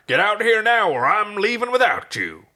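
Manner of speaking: high, loud shout with a lisp. Acted. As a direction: bark the order with a lisp. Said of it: "play a lisp for, for comedy".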